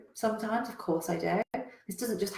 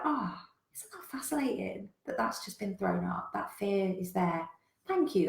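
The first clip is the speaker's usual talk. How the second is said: gentle self-talk. Retold or imitated. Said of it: "Instead, I go".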